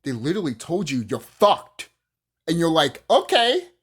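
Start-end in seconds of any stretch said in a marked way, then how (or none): 1.1-1.9 blunt mock declaration. Government's blunt message mocked. 3.1-3.7 high, loud, naive okay; mock meek okay. Vlogger mocks parents accepting bad news, high naive okay.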